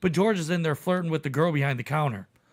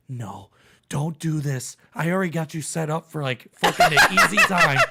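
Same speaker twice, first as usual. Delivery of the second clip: laughing plea; 5 dB louder than usual. Retold or imitated. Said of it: "and I'm like".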